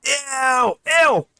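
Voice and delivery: high mock-disgusted squeal, rising each time. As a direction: squeal ew like it's gross.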